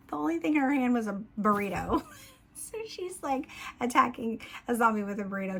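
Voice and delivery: real giggles breaking into the words, pitch jumping high; can't keep a straight face telling the funny part; laughing while telling a silly scene; laughing through it. Real, not acted. Laughing while retelling burrito fight.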